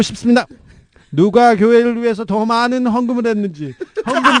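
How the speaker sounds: lightly voiced sermon, rising pitch; half-hearted impression of an old pastor; preacher impression. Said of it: "성대모사가 안 되는데 이해하세요".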